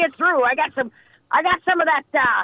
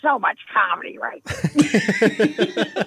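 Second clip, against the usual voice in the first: laughing; 2 semitones higher, slower than usual. Acted. Laughs at the joke.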